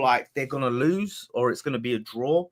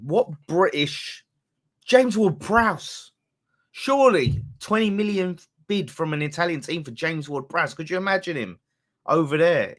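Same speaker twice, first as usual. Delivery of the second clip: high, loud mock German accent; half-hearted German accent with pitch up; 5 semitones higher, 3 dB louder than usual. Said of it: "that German accent".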